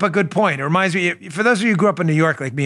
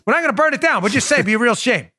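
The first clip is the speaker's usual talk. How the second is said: high mock wiseguy menace; hammed-up mob shakedown line; mobster veiled threat; 7 semitones higher than usual. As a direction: smile while you threaten.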